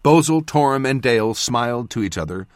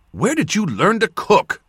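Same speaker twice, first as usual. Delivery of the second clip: higher, amazed question; wondering; 10 semitones higher, 3 dB louder than usual. A narrator's reading. Narrator praising the twins' cooking, full of wonder. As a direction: marvel at the food as you ask. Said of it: "with no small amount of wonder".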